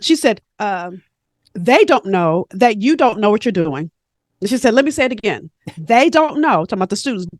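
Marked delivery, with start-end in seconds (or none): 1.5-3.9 lightly imitated Caribbean mentor, measured delivery; a hint of Caribbean lilt; bad Caribbean accent. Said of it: "about to mess up her Caribbean accent". 4.7-6.6 lightly imitated Caribbean mentor; a touch of emphatic Caribbean lilt; bad Caribbean accent. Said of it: "about to mess up her Caribbean accent".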